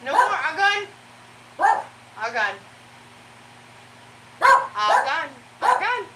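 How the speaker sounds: high loud all gone; high sing-song to dog. Real, not acted. Owner telling her barking dog treats are gone, high sing-song.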